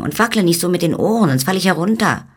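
high, loud, bossy tiny-man voice; scolding little man. Acted. Little man perched between wiggling ears, high and scolding.

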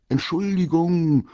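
loud, high, drawn-out call; long carrying shout. A narrator's reading. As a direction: hail strangers from afar, stretching the word. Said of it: "rief Paul".

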